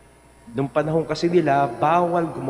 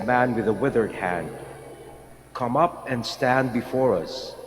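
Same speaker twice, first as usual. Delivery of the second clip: Gospel reading. Acted. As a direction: proclaim it like Scripture at Mass. Priest proclaims the Gospel reading.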